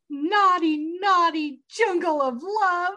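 lightly voiced Kenny, slow and sultry on naughty; a hint of a seductive inmate, drawn out; imitating Kenny. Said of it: "And he says".

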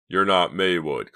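slow, loud exclamation; taken aback, stretched out; exclaiming. A narrator's reading. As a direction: exclaim it in disbelief. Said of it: "Clay exclaimed".

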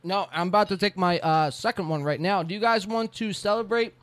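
talking through a mouthful of pizza; chewing while talking. Real, not acted. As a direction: mouth full of food. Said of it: "Sorry, I'm chewing pizza".

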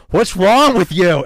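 high, loud, slow "What's wrong with you?"; incredulous yell. Retold or imitated. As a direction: shout it in disbelief at your friend. Friend reacts to long fart.

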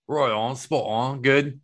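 drawn-out catchphrase in a castmate's manner; Will impression. Host quoting castmate, lightly imitated slow catchphrase. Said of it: "as Will would say".

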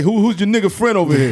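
quick, high mock mobster outrage; fast and loud, an Italian tough guy asking. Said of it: "He's like".

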